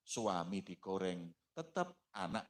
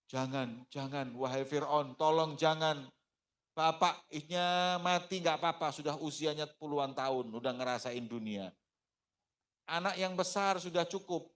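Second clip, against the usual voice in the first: pleading mother; 6 semitones higher, 4 dB louder than usual. Acted. Masyitoh begs Pharaoh for baby.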